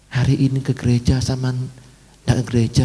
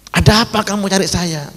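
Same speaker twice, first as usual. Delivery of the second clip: prisoner's question; 9 semitones higher than usual. Retold or imitated. Prisoner asks pastor.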